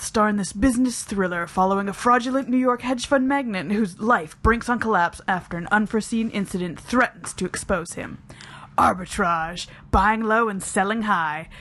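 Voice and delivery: mock movie trailer narrator. Podcast co-host reading the synopsis to Dan in trailer voice. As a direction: sell it like a film trailer, playfully. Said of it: "in my trailer voice".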